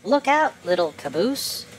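high urgent warning; alarmed call. Acted. Flat car warns the caboose, high and urgent. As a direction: shout the warning up the train. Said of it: "called the flat car".

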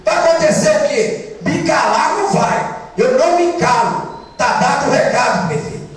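indignant, defiant, pitch jumping up at first; real anger. Real, not acted. Councillor answering the mayor's threat, angry and defiant. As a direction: push back, refusing to be silenced. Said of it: "Tô tremendo de raiva aqui".

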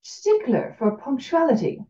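slow, drawn-out Cajun drawl; a light French-Southern Cajun drawl; Cajun accent. Acted. Blind teacher teasing the punctual professor, Cajun drawl. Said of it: "slow drawl that was somehow both French and Southern".

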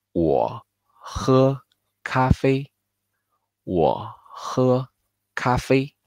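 careful demo of 我喝咖啡; model sentence. Shown as a demonstration. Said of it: "I drink coffee will be".

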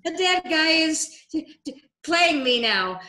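high, slow, half-laughing amazement; a squeaky, breathless "the dead guy is playing me"; stunned laughing disbelief. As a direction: gasp it out like you can't believe it. Retold disbelief at ghost message.

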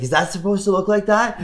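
high, alarmed question, pitched well up; a startled rescuer blurting it out; gasping patrolman. Retold or imitated. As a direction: mimic the shocked ski patroller. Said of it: "he gasps".

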